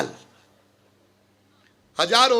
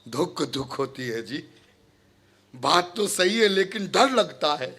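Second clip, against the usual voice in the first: low, soft, hesitant confession; timid admission; 8 semitones lower, 5 dB quieter than usual. Acted. Timid listener confessing fear to the preacher, low and meek. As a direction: admit the fear quietly, pitched down.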